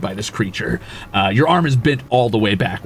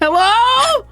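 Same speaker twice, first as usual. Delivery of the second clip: creature calling; 4 dB louder than usual. Acted.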